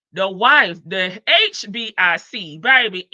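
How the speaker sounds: lightly voiced reality-show diva, loud on key words; a hint of sassy diva, punched words; Miss New York. Wife declaring her title, light Miss New York impression. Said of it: "in my Miss New York, um, voice".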